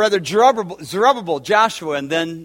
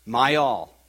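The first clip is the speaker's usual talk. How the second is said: softer, choked-up prayer; real emotion, much softer; emotional; 5 semitones lower, 4 dB quieter than usual. Real, not acted. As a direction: pray it as feeling wells up. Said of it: "I'm getting emotional".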